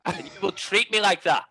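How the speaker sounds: hammed-up offended wife; mock wife. Playing the wife in the visa-marriage joke, mock indignant. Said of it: "I had to become his wife".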